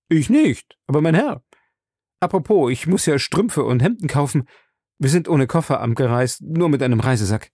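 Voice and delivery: lightly voiced talkative servant; chatty Passepartout. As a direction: chatter on about your errands.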